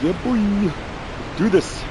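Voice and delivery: loud, high hype yell; hyped shout. Real, not acted. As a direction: shout it out, pumped up. Gamer hyping up mid-fight.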